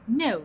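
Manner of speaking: "No" starts high and loud, gliding steeply down; falling tune. Shown as a demonstration. Teacher demonstrating a word to students, high falling glide. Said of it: "نفس الشيء".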